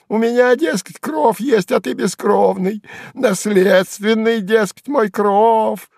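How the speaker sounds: high sneering shout; spiteful jester, worked up. A narrator's reading. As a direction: taunt him harder and harder. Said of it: "Сувенир вдруг расходился".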